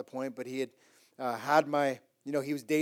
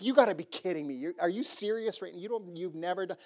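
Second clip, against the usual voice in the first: retold fury; 4 semitones higher than usual. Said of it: "I'm furious".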